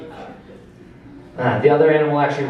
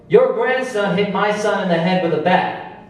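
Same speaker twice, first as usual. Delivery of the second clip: higher put-on voice of an upset neighbor; neighbor mom complaining; 6 semitones higher than usual. Upset neighbor mom complaining to grandma at the door, higher voice. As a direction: play the outraged mother at the door.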